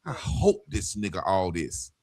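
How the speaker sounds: hushed aside voicing someone's thought; private thought. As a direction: drop low and soft, as if thinking it. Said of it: "And in their mind".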